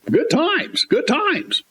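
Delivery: high dreamy sigh of nostalgia; mock wistful. Remembering shoppers squeezing the Charmin, high and wistful. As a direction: float it up, wistfully mocking.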